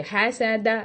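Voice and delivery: "हैसादा" with the first vowel flattened to "ऐ"; wrong spread-lip fatha. Shown as a demonstration. Teacher demonstrating the wrong "हैसादा". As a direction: mimic the spread-lip error. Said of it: "This is not acceptable".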